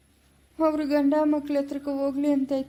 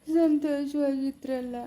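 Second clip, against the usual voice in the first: slow tearful line, voice catching; weeping. Acted. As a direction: speak through tears, slowly. Father mourns loss, weeping.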